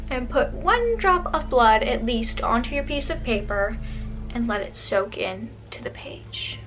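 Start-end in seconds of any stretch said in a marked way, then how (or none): 4.3-6.6 whispered, eerie and hushed; nervous night vlog whisper. Acted. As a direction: whisper it like a ghost story. Creepy ritual step.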